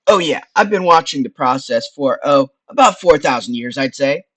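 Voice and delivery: loud chummy wise-guy skull; Frank. Acted. Skull telling how long he's watched, wise-guy voice. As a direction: push it out like an old hand.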